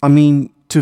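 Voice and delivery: lightly stammering, searching for the words; hesitant stammer. A narrator's reading. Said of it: "Stan began to stammer".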